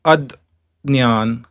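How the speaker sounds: Adnyan drawn out slowly, with d-n-y; Adnyan, a d before the ny; Maharashtrian pronunciation. Shown as a demonstration. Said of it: "Maharashtra, it is pronounced as".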